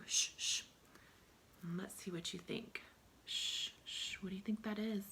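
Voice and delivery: unvoiced, hushed whisper; soft teasing whisper; whispered clue. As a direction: whisper the sound clue secretly. Teacher hushes, gives sh clue.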